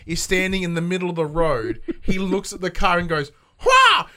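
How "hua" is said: much higher, louder mock squawk; bird war cry. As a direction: screech as the attacking plover. Voicing the bird's attack cry.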